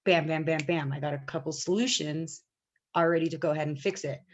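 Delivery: calm professional to manager. Retold or imitated. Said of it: "I'm just like".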